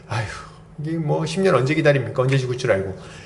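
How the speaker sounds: sighing, mildly fed-up grumble; weary complaint. Acted. Imagined reply to a ten-year wait, weary complaint. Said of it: "이렇게 할 텐데".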